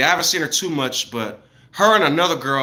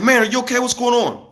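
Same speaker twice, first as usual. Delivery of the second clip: concerned; 8 semitones higher than usual. Retold or imitated. Knocking on neighbour's door.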